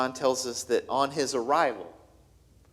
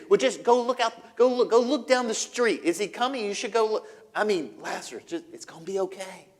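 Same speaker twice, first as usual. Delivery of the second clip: anxious urging; 4 semitones higher, 4 dB louder than usual. Acted. Anxious sister urges Mary to look.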